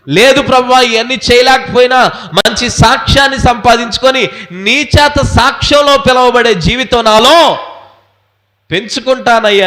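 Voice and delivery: preacher acting out a prayer; impassioned prayerful preaching. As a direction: plead it out as a believer's pledge. Preacher voices believer's vow.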